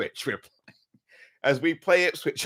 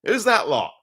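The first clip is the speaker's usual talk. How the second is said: mock disbelief; 11 semitones higher, 7 dB louder than usual. Mock bafflement at opponent name.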